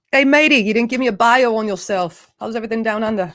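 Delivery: jokey, poorly faked Australian accent; bad Australian accent. Host ribbing Mark about his bio, bad Australian accent. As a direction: tease him in a shaky-grasp Aussie accent. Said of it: "I can't do an Australian accent".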